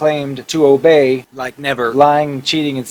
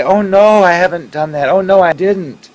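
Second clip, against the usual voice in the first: higher, louder mock protest; defensive pleading; 5 semitones higher, 4 dB louder than usual. Wife reassuring her jealous husband, lightly pleading. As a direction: protest your innocence, a little frantic. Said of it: "she would bend over backwards to say".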